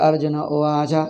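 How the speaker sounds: "Arjuna Uvaja" with unstressed, light consonants; imitated light pronunciation. Teacher imitates foreign students, lightly pronounced "Arjuna Uvaja". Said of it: "They say like that".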